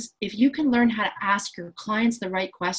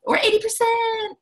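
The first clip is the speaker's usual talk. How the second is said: high, excited squeal; hammed-up thrilled student; mock euphoria. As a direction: squeal over a perfect test score. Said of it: "you're like".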